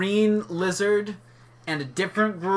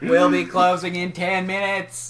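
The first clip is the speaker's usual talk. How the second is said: JFK voice. Retold or imitated. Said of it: "J F K voice".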